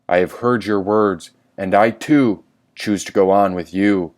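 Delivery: slow, hint of a mysterious old creature; lightly voiced mystery creature, unhurried. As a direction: opossum speaking from the dark hall. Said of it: "said the mysterious creature".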